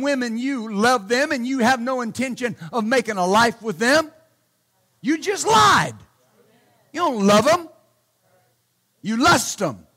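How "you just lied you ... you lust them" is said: sharp accusation. Real, not acted. Preacher calls out men.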